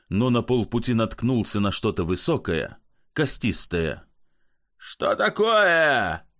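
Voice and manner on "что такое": roar. Acted. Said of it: "заревел он".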